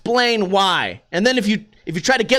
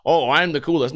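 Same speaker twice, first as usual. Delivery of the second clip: mock snob; 7 semitones lower than usual. Host mocking someone who thinks they talk right, mock snob. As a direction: put on a smug, low know-it-all. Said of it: "I don't mean to be like".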